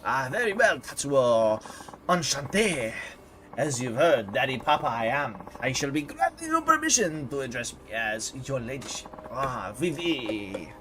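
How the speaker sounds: lightly voiced grand French lady; a hint of a haughty French diva; questionable French accent. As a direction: grant favours in a hammy French accent. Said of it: "do my questionable French accent".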